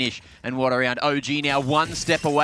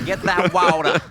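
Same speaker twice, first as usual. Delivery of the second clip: put-on slow, loud New York accent, "water" as "walder"; 5 semitones higher, 7 dB louder than usual. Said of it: "with a New York accent".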